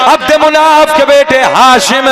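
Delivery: rhythmic chanted lineage, held at full preaching force; preaching recitation. Acted. Preacher reciting the lineage to the gathering, full preaching. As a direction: intone each name to the crowd like a sermon.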